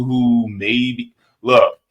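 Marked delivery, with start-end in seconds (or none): 1.4-1.8 put-on Jersey accent. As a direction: tell it like a Jersey guy. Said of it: "I'm a use my Jersey accent".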